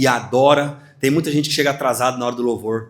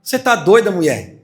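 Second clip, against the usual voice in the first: incredulous retort; 2 semitones higher than usual. Acted. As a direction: scoff at her claim. Church doubts the girl.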